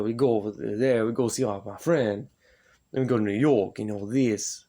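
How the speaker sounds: put-on weak, half-hearted New York accent; mock New York guy, barely shifted; a faint try at a New York accent. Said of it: "I'm not good with accents like that".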